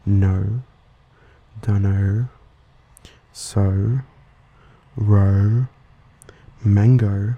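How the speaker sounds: Australian accent on final O, gliding upward in a list. Shown as a demonstration. Host demonstrating a unique vowel, Australian accent O. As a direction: draw out the Australian O ending in "no" and "mango". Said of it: "O sound at the end of words in the Australian accent".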